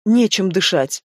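ordinary delivery, nothing marked

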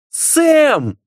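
very high desperate cry; piercing scream. A narrator's reading. Dona screams at Sam to stop, piercing high. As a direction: shriek his name in panic. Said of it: "пронзительно закричала Дона".

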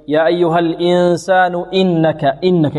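"إنك" begun lightly with a clean i; easy hamza. Shown as a demonstration. Teacher modelling for students, smooth hamza. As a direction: recite "إنك" without jabbing the hamza. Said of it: "الهمزة سهلة بدون لكز".

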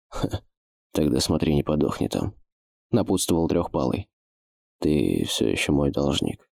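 low, hushed thief voice; a hint of a wary old thief. Thief's parting words.

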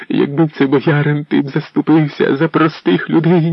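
put-on wife accusing the prince of siding with boyars; bitter outcry. A narrator's reading. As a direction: throw the reproach at him. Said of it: "Вона кричала".

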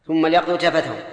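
"ليقضوا" with no vowel on the lam; vowelless lam. Shown as a demonstration. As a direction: run straight from "ثم" into a silent-vowel l in "ليقضوا". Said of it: "اللام ساكنة".

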